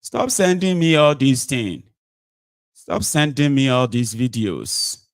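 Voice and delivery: slow, drawn-out mock complaint; imitating irritated dismissal. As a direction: slowly mimic him brushing the videos off. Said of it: "he's sending it back to say".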